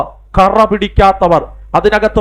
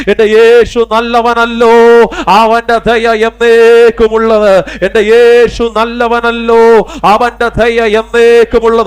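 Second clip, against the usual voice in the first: slow, loud, higher call to the congregation; 3 semitones higher, 4 dB louder, slower than usual. Real, not acted. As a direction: lead the crowd in a slow, ringing shout. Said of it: "ഉറക്കെ പറ".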